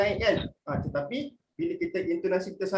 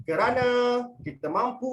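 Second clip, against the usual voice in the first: slow delivery; 5 semitones higher than usual. Shown as a demonstration. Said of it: "cara yang pertama, Abang Saleh akan buat".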